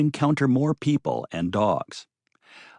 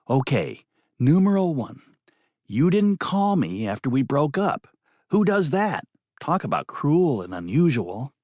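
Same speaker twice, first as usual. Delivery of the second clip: higher, indignant woman's voice; 4 semitones higher than usual. Acted. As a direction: complain like she's been wronged.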